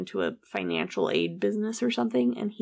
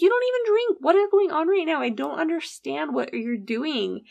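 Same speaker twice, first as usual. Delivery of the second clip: retold quarrel, pitch shooting up then settling; acted exasperation; 8 semitones higher than usual. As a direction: imitate a bewildered, angry sister. Sister confronting him in quarrel.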